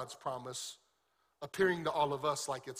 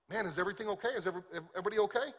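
anxious checking; 3 semitones higher, much faster than usual. Acted. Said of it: "Elisha's just normal guy".

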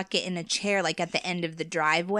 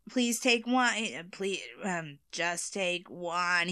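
scary voice; much slower than usual. Retold or imitated. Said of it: "He's, like, doing a scary voice".

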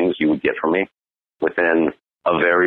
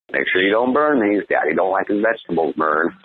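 goofy joke; 4 semitones higher than usual. Retold or imitated. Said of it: "make some goofy joke".

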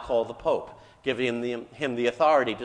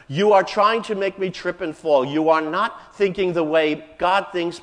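angry rebuke; 3 semitones higher, 5 dB louder than usual. Retold or imitated. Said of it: "He turns on him in anger".

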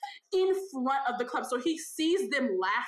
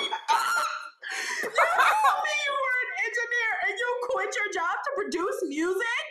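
high, drawn-out mock outrage through laughter; laughing disbelief; 10 semitones higher than usual. Woman challenges date who quit engineering, laughing disbelief. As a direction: squeal it slowly, falling as you go.

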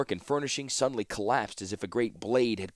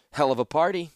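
light; 7 semitones higher, 6 dB louder than usual. A narrator's reading. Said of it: "Her words were light".

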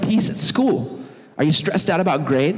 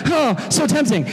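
mock tempted; 9 semitones higher than usual. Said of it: "And you're like".

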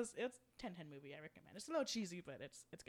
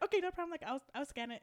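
higher-pitched, obliging imitation; really nice; 8 semitones higher, 4 dB louder, faster than usual. Kind drive-thru worker agreeing to retry the card, high and obliging. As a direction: play the accommodating worker in a lifted voice. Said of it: "he's, like, really nice about it".

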